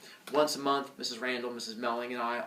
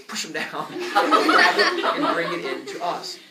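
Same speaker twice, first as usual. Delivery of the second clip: mock conspiratorial urging; 4 semitones higher, 8 dB louder, much slower than usual. Teacher mock-urging kids to steal.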